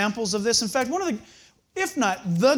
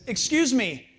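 mock timid bold question; 6 semitones higher, 6 dB louder than usual. Retold approach to gang leader.

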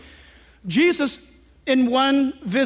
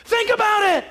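mock timid sergeant; 8 semitones higher than usual. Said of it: "what does he say".

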